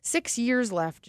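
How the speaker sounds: mock-deliver a death sentence, slowly; mock grim verdict. Advisor to client in imagined meeting, mock grim and slow. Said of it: "I was like".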